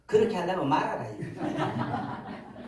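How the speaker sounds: lightly put-on Gyeongsang dialect. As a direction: say it as a Gyeongsang rebuke. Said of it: "경상도 말로". (경상도 말투로)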